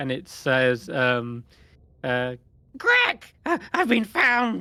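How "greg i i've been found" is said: very high, frantic, swooping panicked shriek. Voicing a screech in Draconic calling out to Greg, as a panicked screech. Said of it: "a panicked sort of screech".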